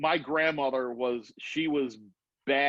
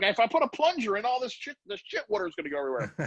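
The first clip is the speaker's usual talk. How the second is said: much higher, ending fast with a laugh; laughing alarm; 7 semitones higher, faster than usual. Retold or imitated. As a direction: panic about the mess spilling. Warning about shit water.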